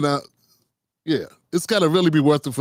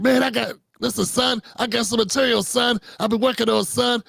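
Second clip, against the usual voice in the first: higher, lightly voiced pushy comic; Donnell impression; 5 semitones higher than usual. Donnell pitching his material in the elevator. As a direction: pitch it up and keep saying son. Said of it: "Donnell's like".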